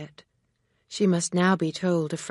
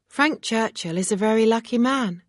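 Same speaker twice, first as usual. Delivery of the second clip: with a smile; 6 semitones higher, 5 dB louder than usual. Acted. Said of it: "Emma said with a smile".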